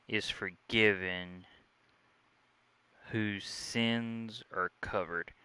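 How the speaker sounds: slow, measured Bible reading; unhurried scripture reading to the viewers. Acted. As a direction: read the verse slowly and solemnly, word by word. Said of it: "I wanna read a little scripture to you".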